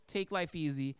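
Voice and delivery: low, soft self-talk. Acted. Rich man reassuring himself, low self-talk. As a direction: drop it low and quiet, as if to yourself. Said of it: "I'll say to myself".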